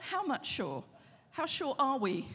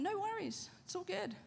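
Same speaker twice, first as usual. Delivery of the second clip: breezy and soft, brushing it off; a lightly voiced careless king, softer; casual king; 3 semitones higher, 5 dB quieter than usual. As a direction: shrug it off like it's nothing. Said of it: "the king went".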